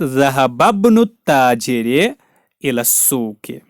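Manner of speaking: "ज़हबब्नु ताजिर" joined, alif of ibn silent; linked reading. Shown as a demonstration. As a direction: demonstrate "ज़हबब्नु" as one word, then "इला सूक". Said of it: "तो मिलाते वक्त".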